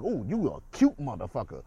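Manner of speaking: mock-friendly swooping compliment; acted compliment. Someone coming up to pay a compliment, acted with exaggerated inflection. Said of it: "because the inflection in your".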